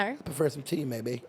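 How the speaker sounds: put-on soft amateur British accent; attempted British accent. Host role-playing tea with guest, in a British accent. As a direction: try politely sounding British. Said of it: "Oh, you're doing good".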